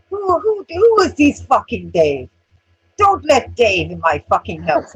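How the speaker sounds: high, loud, slow mock panic; frightened man. Mocking the beaten man asking who Dave is, high panic. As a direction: squeal it like a scared drunk.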